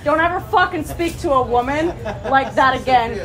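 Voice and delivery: real anger, straight at him; angry confrontation. Real, not acted. Woman calling out the man who harassed her, angry. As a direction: tell him off to his face.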